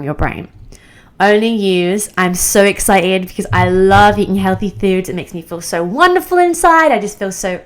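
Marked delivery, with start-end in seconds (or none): 2.2-7.6 excited gushing. Shown as a demonstration. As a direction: gush like it's the best feeling ever. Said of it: "use exciting words that will excite the brain".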